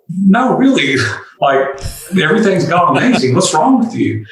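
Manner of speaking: a hint of the puzzled wife pressing; husband retells wife pressing him, mild voicing. Wife pressing in retold scene.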